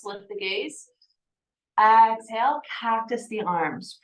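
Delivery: calm, measured yoga-teacher cueing; guided yoga. Acted. Yoga teacher settling a class into breath and movement, calm guidance.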